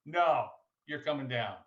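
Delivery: slow, lightly voiced fatherly coach; a hint of a firm mentor, unhurried. Coach telling his athlete he's coming, lightly fatherly mentor voice. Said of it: "his best mentor voice going, and the fatherly voice".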